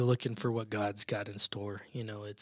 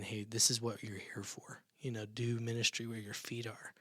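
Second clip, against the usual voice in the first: whispering; 6 dB quieter than usual. Retold or imitated. God's voice quoted in prayer.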